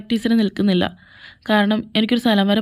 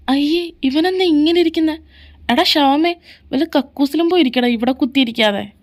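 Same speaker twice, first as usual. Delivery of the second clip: higher-pitched mocking rebuke; disgusted scolding; 4 semitones higher than usual. Friend finds him moping on the spot, disgusted scolding. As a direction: tell him off in mild disgust.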